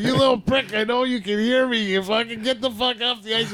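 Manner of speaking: imitating a furious coach shrieking at his player; screaming coach. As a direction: scream it at him from the bench. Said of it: "This is Crispy yelling at".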